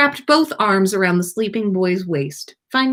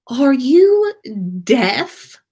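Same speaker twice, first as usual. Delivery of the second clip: grumbled retort; 6 semitones higher, 5 dB louder, much slower than usual. A narrator's reading. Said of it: "Draco mumbled back".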